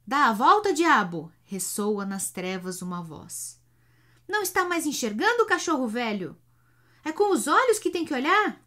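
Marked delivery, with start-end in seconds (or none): 0.1-1.3 yelling roughly at the driver; angry shout. A narrator's reading. 4.3-8.6 higher and louder, fast scolding; angry scolding. A narrator's reading. Passenger berating the driver.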